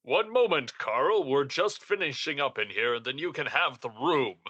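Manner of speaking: lightly acted, swooping pitch on each phrase; in-character stalling. Employee stalling Carl outside the room, singsong. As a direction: stall someone with a singsong lilt.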